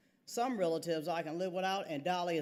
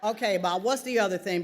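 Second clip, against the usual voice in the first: laughing, louder, hurrying her along; 3 semitones higher, 8 dB louder than usual. A narrator's reading. Daughter stuck in traffic, hurrying her mother, laughing. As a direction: chuckle and push for the point.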